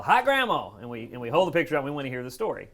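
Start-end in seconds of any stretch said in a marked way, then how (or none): 0.0-0.8 loud, high delighted yell; high, loud crowing shout; yelled call. Acted. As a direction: holler it out to the whole house. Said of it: "we always yell".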